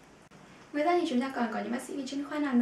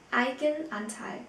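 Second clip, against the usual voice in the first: slow model word; slower than usual. Shown as a demonstration.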